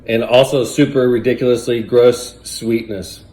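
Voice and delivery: loud, disgusted groaning; gagging on the awful taste. Real, not acted. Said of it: "it's so gross".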